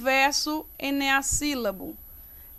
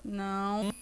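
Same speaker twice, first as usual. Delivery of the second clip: each syllable alone, drawn out, with long pauses; 6 semitones lower, 11 dB quieter than usual. Shown as a demonstration. Teacher separates the verse for students, slow isolated syllables. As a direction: separate "não, sei, quem, se, já, uau", lower pitched. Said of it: "Vamos separar".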